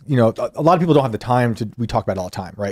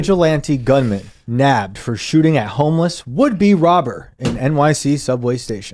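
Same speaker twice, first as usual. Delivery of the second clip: slow news headline delivery; headline read; slower than usual. Shown as a demonstration. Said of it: "read it for me, Shane".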